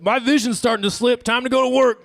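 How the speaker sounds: fume-huffing crowd member heading to work, hammed up; mock dazed huffer. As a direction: play a fume-high guy getting ready. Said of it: "You're like".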